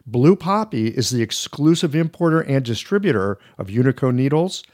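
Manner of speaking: polished, upbeat read of a sponsor spot. Acted. Host reads a needle sponsor ad to podcast listeners, polished ad voice. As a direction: sell the product smoothly to listeners.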